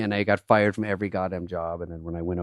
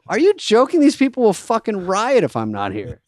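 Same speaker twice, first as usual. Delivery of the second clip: much higher, louder disbelief; mock outraged diva; 11 semitones higher, 4 dB louder than usual. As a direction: play the offended star performer. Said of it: "And I'm like".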